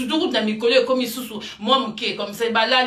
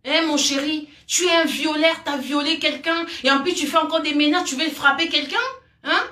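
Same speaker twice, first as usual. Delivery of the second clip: higher, sneering "mon chéri" aimed at the culprit; pitched-up scornful challenge; mocking taunt; 4 semitones higher than usual. Real, not acted. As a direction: taunt him with fake sweetness. Taunting the rapist directly.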